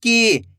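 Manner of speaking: की with a long, held ee; long ī demo. Shown as a demonstration. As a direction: stretch the vowel of की for learners. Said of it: "बड़ी ई की मात्रा का उच्चारण". (की में लंबी ई)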